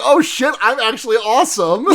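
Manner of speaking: surprise yourself with your own coolness; mock amazed. Subaru amazed at his own kick, laughing.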